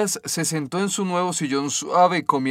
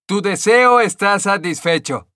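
higher, louder fairy voice; fairy granting a wish; 6 semitones higher, 5 dB louder than usual. A narrator's reading. Green fairy to the stonecutter, grand higher voice.

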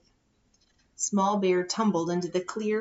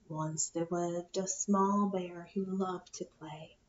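deep rumbling voice; 3 semitones lower, 5 dB quieter than usual. Acted. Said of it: "In a deep, rumbling voice".

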